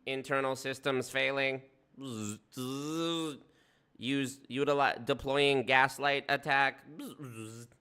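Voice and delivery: malfunctioning robot, slow and buzzing. Retold or imitated. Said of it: "He's like".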